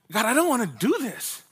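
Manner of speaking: high, whiny plea to God; mock whining. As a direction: complain like a reluctant kid, played for laughs. Retold complaint to God.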